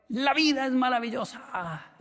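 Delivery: high, slow sing-song cry; teacher's motto. Retold or imitated. Teacher repeating his motto to the student, slow, high sing-song. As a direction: draw it out like the teacher's anthem. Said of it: "toda la clase era así".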